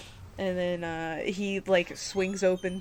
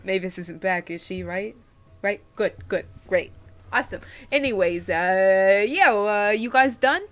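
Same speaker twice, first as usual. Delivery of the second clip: Wartor voice; 8 dB louder than usual. Acted.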